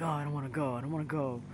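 lightly voiced gruff unicorn; a hint of grumpy reluctance; Charlie the Unicorn. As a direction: grumble it gruffly. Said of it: "Charlie's really gruff".

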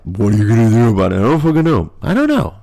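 hammed-up helpless voice; mock exasperation. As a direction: throw it out in a rising comic whine. Repeats in put-on exasperated voice.

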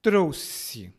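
"Trouxe" measured, X said as ss; "Trouxe" as a teaching word, with a clear s; s sound. Shown as a demonstration. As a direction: model "Trouxe" as TROU-sse. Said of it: "O segundo som é de S".

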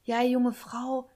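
imitating a suddenly placating driver; slow, drawn-out retold address; changed tone. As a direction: stretch it out as the driver backing down. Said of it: "plötzlich hat sich seine Stimmlage voll verändert".

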